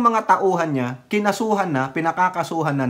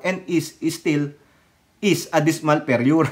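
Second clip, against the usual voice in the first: mock Chinese accent. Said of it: "Ulitin natin".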